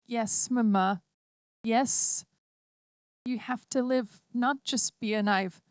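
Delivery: put-on a small girl gently letting her mother go; lightly voiced child, tender and firm; little girl voice. A narrator's reading. Child android pleads gently.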